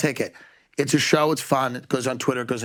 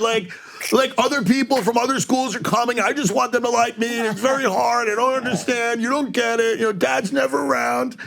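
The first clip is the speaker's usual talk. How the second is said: put-on whiny kid; 3 semitones higher than usual. Whiny kid pleading with mom.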